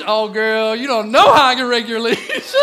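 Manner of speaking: loud, hammed-up come-on; big, high, jokey flirting; suggestive innuendo. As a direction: make raking leaves sound like mock seduction. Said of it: "Guys can make anything sexual".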